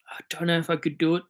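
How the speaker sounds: quick conspiratorial whisper; hushed, fast aside to the chat. Real, not acted. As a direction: breathe it like a guilty secret. Secretly tempted by a pick.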